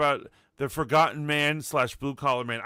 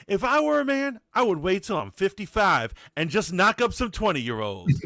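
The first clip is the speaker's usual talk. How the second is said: put-on cute Southern accent; 3 semitones higher than usual. Host retelling a church friend's advice, cute Southern accent. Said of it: "in that cute Southern accent".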